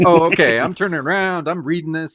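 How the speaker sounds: mock nerd voice. Voicing the nerdy guy.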